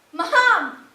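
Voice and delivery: shouting Mom across the room; loud call. Acted. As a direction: call out to her, full voice. Calling out to mother joyfully.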